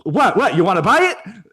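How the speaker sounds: put-on high, impatient old New Yorker; put-on exasperated husband; annoyed Brooklyn husband. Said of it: "he's annoyed".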